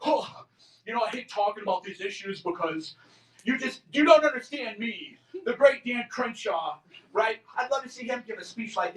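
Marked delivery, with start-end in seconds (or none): 0.0-6.8 smug mock voice. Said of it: "He had that, like, smug affect".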